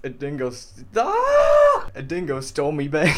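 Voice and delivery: loud, broad hammed-up Australian; mock Australian accent. Showing the world how Australians sound, hammed-up Australian accent. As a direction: exclaim it as an over-the-top Aussie caricature. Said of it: "That's what Australians sound like".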